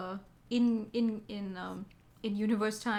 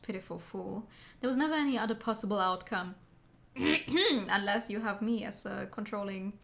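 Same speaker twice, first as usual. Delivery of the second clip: cold, measured ninja; stoic ninja. Acted. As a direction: deliver it like a stern warrior. Voices the game character.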